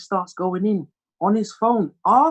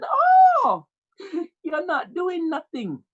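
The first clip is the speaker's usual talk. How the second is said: hammed-up high-pitched dismissal; scoffing mother; 14 semitones higher, much slower than usual. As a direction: scoff like a mum who won't hear it. Mother dismisses son's plans.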